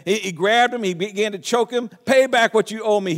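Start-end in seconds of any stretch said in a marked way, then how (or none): 2.0-3.2 a firm, slightly raised demand. Acted. Servant choking his debtor, mock demand. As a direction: demand the money back, a touch louder. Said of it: "he demanded".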